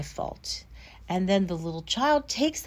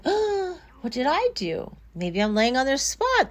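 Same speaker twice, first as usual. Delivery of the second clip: higher, wounded little "oh"; lightly voiced hurt dog; 4 semitones higher than usual. Kicked dog wondering at the child, lightly voiced hurt. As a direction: play a puzzled, innocent dog. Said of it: "And the dog is like".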